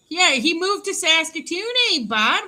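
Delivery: put-on Canadian accent. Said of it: "can you talk to me like that all the time".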